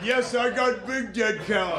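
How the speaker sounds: put-on Yemeni cab driver accent, loud and laughing; laughing cabbie accent. Cab driver answering while laughing, Yemeni accent. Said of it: "And he's laughing".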